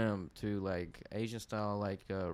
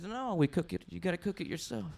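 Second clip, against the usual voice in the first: put-on girlfriend; 8 semitones higher than usual. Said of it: "She says".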